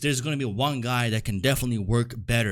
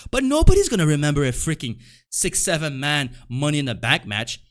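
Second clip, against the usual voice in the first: louder, exasperated burst; emphatic rant; 5 dB louder than usual. Real, not acted. Ranting to viewers about a forgettable match, an exasperated loud burst. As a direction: push the words out in frustration.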